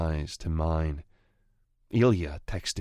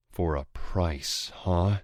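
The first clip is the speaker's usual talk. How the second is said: snarl; slower than usual. Acted. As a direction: sneer the words back at him. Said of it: "I snarl".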